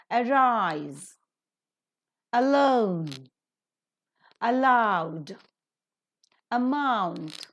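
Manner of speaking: weak opening "a", long strong root, as in a-RISE and a-LONE; drawn-out second syllable in each word, "arise" to "about", pausing between; stress on root. Shown as a demonstration. Teacher modelling word list for students, root stressed after weak "a". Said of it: "the root word are given stress".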